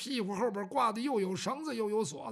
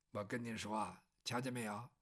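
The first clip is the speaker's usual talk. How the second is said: much lower, softer gossip; confiding murmur; 12 semitones lower, 10 dB quieter than usual. Acted. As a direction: lean in and let him in on the secret. 百姓悄悄告诉张龙. (百姓压低嗓门说悄悄话)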